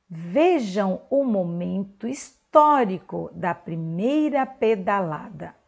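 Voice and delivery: slow, lively storytelling voice; story reading to children. Acted. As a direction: read the comic aloud like a story for kids. Reads comic story aloud.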